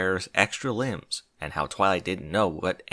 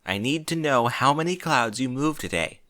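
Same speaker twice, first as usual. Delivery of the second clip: serious Twilight; 3 semitones higher than usual. Acted. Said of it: "her voice as serious as Rainbow had ever heard it".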